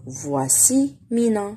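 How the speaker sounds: slow, careful "Voici Mina" again for pupils; slow repeat. Shown as a demonstration. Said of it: "repeat for pupils".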